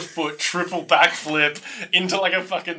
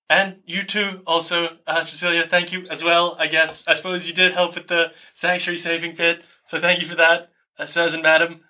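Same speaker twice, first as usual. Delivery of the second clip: lightly voiced polite character, pitched higher; a hesitant, higher thank-you in character; Jeffrey; 3 semitones higher than usual. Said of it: "So he says, uh".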